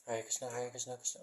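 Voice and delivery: mantra recited at an everyday quick pace; not slowly. Shown as a demonstration. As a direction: run through the chant without slowing down. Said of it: "oh, no, that wasn't slowly".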